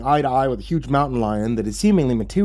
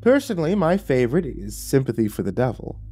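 devil figure, delighted; 8 semitones higher than usual. Acted. Lucifer finding a fellow fan of a band, teasingly delighted.

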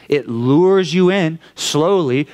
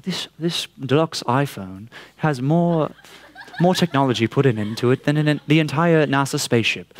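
mock ad announcer. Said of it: "that's how they talk".

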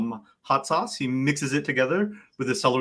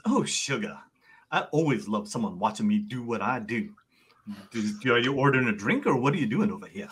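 softer flirty bartender voice; lightly sassy bartender; 2 semitones lower, 4 dB quieter than usual. Acted. Bartender to an admiring customer, lightly flirty. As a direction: lightly play a bartender enjoying an audience.

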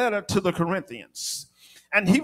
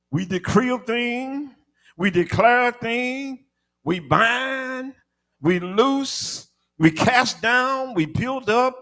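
punchy list in short, raised phrases; rhythmic preaching; 4 semitones higher than usual. Real, not acted. Preacher recounting what the church declares in prayer, rhythmic preaching. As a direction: ring out each declaration like a preacher.

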